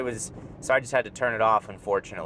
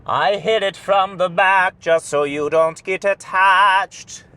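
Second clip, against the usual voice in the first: mock tough guy; 6 semitones higher, 7 dB louder, slower than usual. Boastful mock line, loud.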